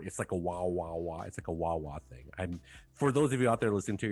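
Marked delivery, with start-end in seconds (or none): 0.0-1.2 wavering wah-wah imitation; wobbly tape warble. Shown as a demonstration. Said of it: "which with my voice is the". 1.3-2.3 wobbly tape warble. Shown as a demonstration. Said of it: "trying to simulate the wah, wah effect with my mouth".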